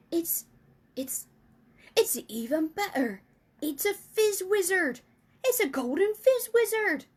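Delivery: building from hushed to loud, high delight; rising thrill. Acted. Giant announcing a golden dream to Sophie, growing ecstatic. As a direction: climb in joy as he names it.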